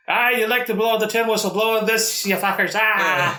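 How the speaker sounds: high, mocking battle taunt; taunting warrior. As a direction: jeer at the enemy from the charge. Naked warrior taunting enemy.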